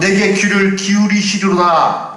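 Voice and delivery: lead reading. Shown as a demonstration. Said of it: "저를 따라서 읽어주시기 바랍니다".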